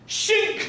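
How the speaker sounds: high metallic shink; sword shing sound. Acted. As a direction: voice a blade being drawn. Sword drawn with sound effect.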